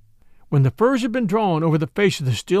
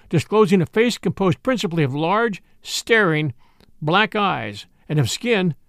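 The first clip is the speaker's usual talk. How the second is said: usual speaking voice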